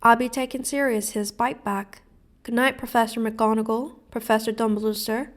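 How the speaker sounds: muffled tearful farewell. Acted. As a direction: talk through the hanky. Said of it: "said Hagrid in a very muffled voice".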